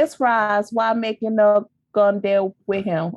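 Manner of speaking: imitated Jamaican accent, reading aloud; Jamaican patois. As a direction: read it as written, in Jamaican patois. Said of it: "It's spelt in accent".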